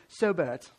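a lightly put-on British accent, half joking; barely-there mock English accent; terrible British accent. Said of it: "terrible British accent".

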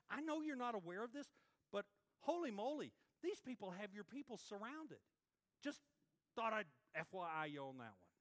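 a chatty prophet grumbling to God; imitating Habakkuk. Prophet voiced complaining to God.

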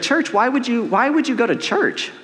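acted disbelief, pitched high; mock a friend's incredulous question; incredulous friends. Acts out friends scoffing at church.

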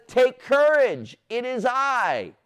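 slow, high reassurance; calm them with every word; reassuring Jesus. Acted. Jesus calling to frightened disciples, slow reassurance.

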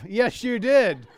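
curt blunt reply. Retold or imitated.

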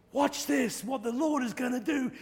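high, loud showman call; triumphant announcement. Retold or imitated. Evangelist telling the crowd to watch the miracle, high triumphant. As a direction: call everyone to look.

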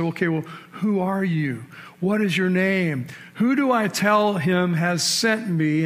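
a hint of a puzzled Moses, slowing; lightly voiced Moses. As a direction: ask it slowly, unsure who's speaking. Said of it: "And Moses said".

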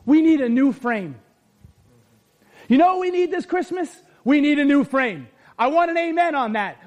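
normal talking voice

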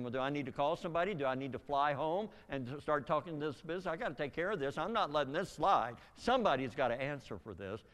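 retold outrage, building; heated. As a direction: vow to fix it, getting heated as you go. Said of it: "I'm getting more and more heated".

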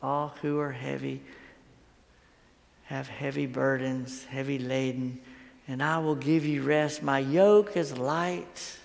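hushed, tender scripture quote; words of grace. Retold or imitated. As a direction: offer comfort quietly, leaving long pauses. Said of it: "the words of grace".

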